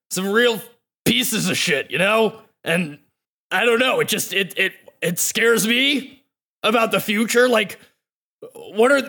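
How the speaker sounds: lightly voiced worried scientist.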